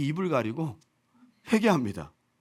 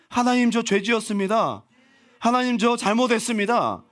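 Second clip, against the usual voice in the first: acted confession; 5 semitones higher, 3 dB louder than usual. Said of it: "자백해서 고백하시면".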